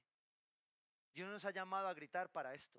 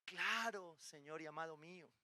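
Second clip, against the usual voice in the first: mock loving. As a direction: imitate a sweetly obedient wife. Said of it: "me respondería así amorosamente".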